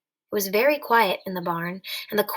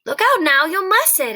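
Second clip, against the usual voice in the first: louder, higher alarmed warning; rising alarm, pitched up; 8 semitones higher, 6 dB louder than usual. Acted. Alarmed as Lenny pulls hair.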